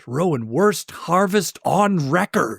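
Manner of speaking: slow, deliberate read-aloud; reading out loud. Retold or imitated. Man reading a note to himself, read out loud. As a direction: spell it out slowly like a written note. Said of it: "he has to read it out loud".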